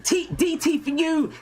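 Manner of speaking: put-on cheering kids. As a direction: whoop like happy kids. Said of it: "get the kids laughing and going".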